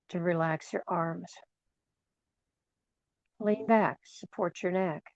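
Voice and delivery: calm, spacious relaxation voice; guided meditation. Acted. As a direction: gently ease them into relaxation, leaving space between phrases.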